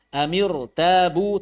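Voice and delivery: slow "Amirtabu" with a heavy r; thick r. Shown as a demonstration. Teacher explains its kasrah is not original, thick r. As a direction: darken the r of "Amirtabu".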